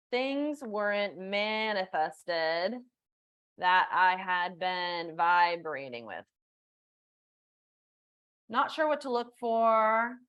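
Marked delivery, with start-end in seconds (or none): 0.1-6.2 drawn-out, weighing each word; slow thoughtful reread. Shown as a demonstration. Coach rereads a viewer's chat comment, slow and thoughtful. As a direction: read it back slowly to take it in. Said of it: "reads chat, then repeats slowly".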